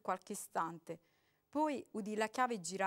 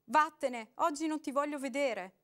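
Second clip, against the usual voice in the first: loud, higher refusal; woman yelling through the door; woman shouting back; 5 semitones higher, 7 dB louder than usual. A narrator's reading. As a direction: send him away.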